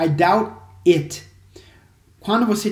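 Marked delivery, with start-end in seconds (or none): 0.0-1.2 "I doubt it" with "it" set apart; separated words. Shown as a demonstration. Teacher isolates "it" for students, words apart. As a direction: say "doubt", then "it" as its own word. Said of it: "Sempre que você fala".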